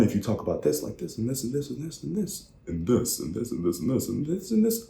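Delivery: high, light, looping up and down; repetitive singsong pattern. Shown as a demonstration. Coach demonstrating predictable speakers, singsong pattern. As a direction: step each "this" along the same rising tune. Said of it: "they just go like this, up, down, up".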